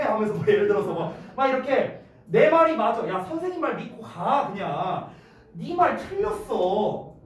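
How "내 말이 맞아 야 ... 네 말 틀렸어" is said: acted insistent teacher arguing; passionate protest. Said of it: "이렇게 내가 열정적으로 항변을". (열정적으로 우기는 선생님 말투)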